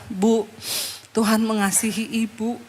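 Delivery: gentle, subdued reassurance; tender pastoral comfort, acted out; retold comforting. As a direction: soothe a crying woman softly. Pastor comforting a weeping woman, retold.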